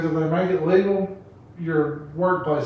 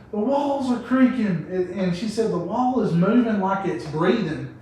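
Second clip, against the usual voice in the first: mild mock scared girlfriend; 4 semitones higher than usual. High girlfriend describing hallucination.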